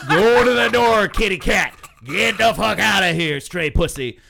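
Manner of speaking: shooing yell. Retold or imitated. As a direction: bellow as if chasing a stray cat. Shooing customer, louder repeat.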